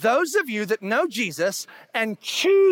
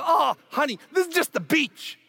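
condescending; 4 semitones higher than usual. Retold or imitated. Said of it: "we go".

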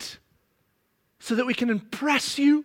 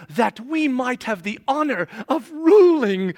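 mock-admiring, louder praise; sarcastic cheerleader voice; 5 dB louder than usual. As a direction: gush with heavy irony. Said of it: "He's being very sarcastic right now".

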